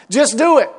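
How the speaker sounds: Just do it said loud and fed up; impatient demand. Retold or imitated. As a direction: bark Just do it at the dithering friend. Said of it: "you want to say".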